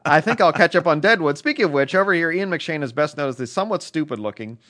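quick reading in a put-on British accent. Reading a listener's letter aloud in a quick British accent. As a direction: rattle off the letter like a Brit. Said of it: "you ran through Tim's with the British accent really fast".

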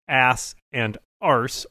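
ass and arse, both said the American way with flat A; American pronunciation. Shown as a demonstration. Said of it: "I'm gonna pronounce them Americanly".

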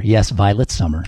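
ordinary talk

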